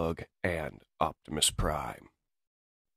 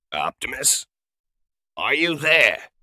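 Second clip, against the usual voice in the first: worried radio call; 8 semitones higher, 9 dB louder than usual. Acted. Medic calls over dead radio.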